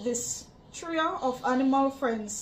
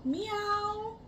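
cat meow; 8 semitones higher, 4 dB quieter than usual. Pretend. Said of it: "The cat say".

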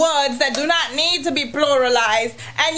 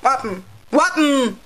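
Anguillian slang. Shown as a demonstration. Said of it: "If you say those things".

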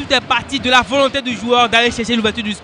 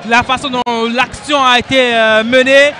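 excited sports commentary; 3 semitones higher, 4 dB louder than usual. Real, not acted. Co-commentator reacts to goal.

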